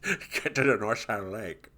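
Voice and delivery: quiet puzzled detective voice; character voice. Acted. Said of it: "So J B says".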